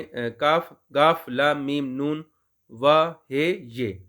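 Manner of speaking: slow, deliberate letter-by-letter recitation; reciting the alphabet. Shown as a demonstration. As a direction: spell out each letter slowly for the class. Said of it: "हम अलिफ बे पढ़ेंगे जी". (धीमे-धीमे हरूफ गिनाना)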